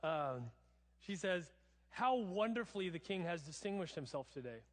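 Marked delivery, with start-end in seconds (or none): 1.9-4.6 mock admiration, mildly overdone; sarcastic praise for the king. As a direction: pretend to be impressed. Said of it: "this is so sarcastic".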